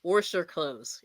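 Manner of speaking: "Warsh" said slowly with an r before the sh. Shown as a demonstration. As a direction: stretch out "Warsh". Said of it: "repeating the word".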